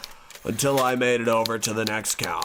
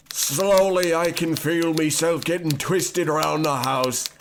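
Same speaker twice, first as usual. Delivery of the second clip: turning into a creature; 6 semitones higher than usual. Acted. Cursed narrator transforms into a sweep, squeaky. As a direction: voice climbing higher into a squeaky creature.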